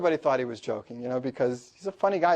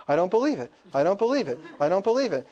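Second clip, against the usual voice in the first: higher, insistent mock disbelief; freaking out, repeating; 5 semitones higher than usual. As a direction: imitate a student stuck in stunned protest. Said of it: "he keeps over and over again".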